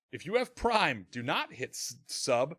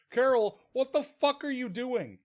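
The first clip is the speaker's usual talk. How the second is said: high-pitched, acted exasperation; incredulous scolding, played for laughs; mock exasperated interruption; 8 semitones higher than usual. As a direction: break into her reverie in disbelief. Acts out interrupting the dreamy Carol.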